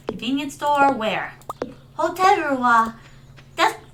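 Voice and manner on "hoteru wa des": Japanese accent, breaking off mid-question; anime-style Japanese pronunciation. Shown as a demonstration. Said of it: "I can do a Japanese accent".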